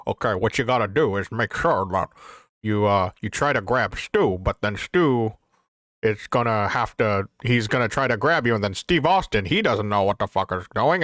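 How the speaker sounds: lightly put-on accent of a veteran wrestling booker; walk them through it in a mild impression; Pat Patterson impersonation. Retelling the booking of a Stampede finish, Pat Patterson impersonation. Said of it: "that's my Pat Patterson impersonation".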